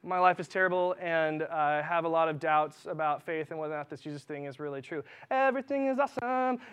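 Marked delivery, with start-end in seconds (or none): 5.3-6.6 high, mock-chirpy cheer; hammed-up fake happiness. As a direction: sing it out fake-happy. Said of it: "you sound so happy".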